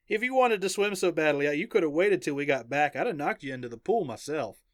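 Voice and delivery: Axel's indignant Southern comeback; strong southern accent. Acted. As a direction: tease back in a Southern US accent.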